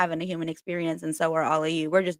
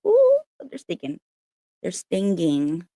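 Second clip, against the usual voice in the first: mock pained squeal; 3 dB louder, slower than usual. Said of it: "I'm just like".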